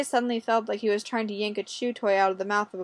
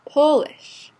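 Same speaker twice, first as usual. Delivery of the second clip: higher, louder character exclamation; loud, high-pitched realization; voiced reaction; 6 semitones higher, 8 dB louder than usual. A narrator's reading. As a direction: exclaim it in Olga's voice, pitch jumping up then falling. Olga reacts to learning he's Polish.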